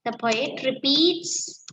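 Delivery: slow, word by word, for writing down; slow dictation. Shown as a demonstration. Teacher dictating the answer to students, slow and deliberate. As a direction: dictate it slowly so they can copy.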